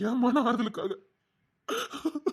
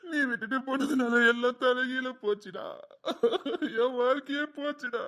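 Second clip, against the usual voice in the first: crying; 2 semitones higher than usual. Acted. Grieving man mourns dead friend.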